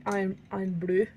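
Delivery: "Iron Brew" in a light Scottish accent, rolled r. Shown as a demonstration. Streamer showing viewers her Scottish "Iron Brew" accent. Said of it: "The Scottish accent".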